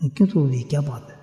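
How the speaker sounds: soft, hushed kindly asking; gentle question. Acted. The Prophet asks the weeping woman why, softly. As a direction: ask her softly, with care.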